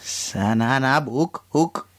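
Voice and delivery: slow, reversed syllables; backwards speech. Shown as a demonstration. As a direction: sound out the phrase in reverse. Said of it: "I'm gonna try too".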